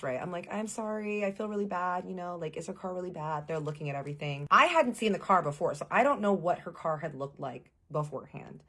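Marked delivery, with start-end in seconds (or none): 0.5-3.5 a touch of worried pleading; stressed apology. Retold or imitated. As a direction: apologize anxiously, lightly acted. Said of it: "I'm, like, getting stressed".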